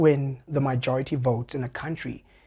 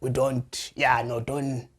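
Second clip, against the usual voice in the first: low-key, hesitant advising voice; lightly voiced comrade; 3 semitones lower than usual. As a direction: gently talk a comrade out of it. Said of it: "talks like me to say".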